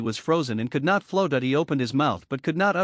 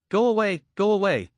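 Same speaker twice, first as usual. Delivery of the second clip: shooing away; 5 semitones higher than usual. Acted. Shooing off teasing friend.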